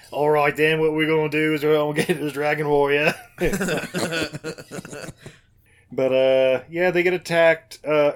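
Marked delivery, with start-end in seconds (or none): 0.1-3.1 lightly Australian ninja voice; a hint of an Aussie accent. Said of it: "a ninja with like an Aussie accent".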